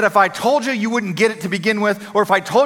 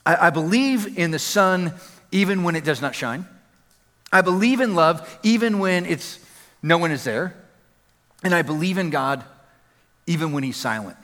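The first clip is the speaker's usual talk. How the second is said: solemn reading; 3 semitones lower than usual. Acted. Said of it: "A Jew had written in the cellar".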